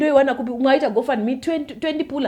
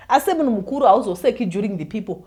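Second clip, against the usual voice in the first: laughing. Real, not acted. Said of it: "Asi ndafa".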